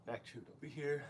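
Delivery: soft, unprojected coaching voice; talking low. Real, not acted. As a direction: coach quietly, without projecting to the mic. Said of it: "I'm talking low".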